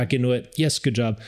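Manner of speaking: high, cheery praise for a dog; excited praise voice. Shown as a demonstration. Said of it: "using my, my dog voice".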